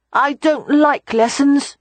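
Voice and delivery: put-on high, slow, sulky child; high reluctant child voice; sighing small boy. A narrator's reading. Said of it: "Rye said, heaving a sigh".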